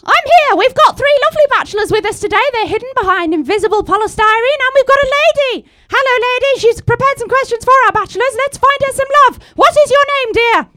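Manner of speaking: impression of a singer turned TV hostess. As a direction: play the cheery TV hostess. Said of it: "I'm a singer turned TV hostess".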